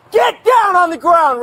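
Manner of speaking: shouting commands. Real, not acted. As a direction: bark the order to get down. Officer orders man to ground.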